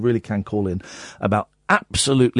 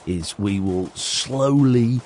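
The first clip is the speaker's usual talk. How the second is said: slowly; 5 semitones lower, much slower than usual. Shown as a demonstration. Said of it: "slowly look through".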